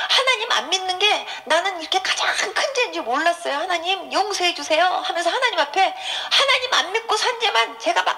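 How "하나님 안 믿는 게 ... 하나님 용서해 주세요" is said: re-enacted plea for forgiveness, pitched up; raised, imploring retold cry; tearful pleading. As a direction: beg God, retelling the tears. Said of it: "빌어가면서 하나님 앞에 우는데요".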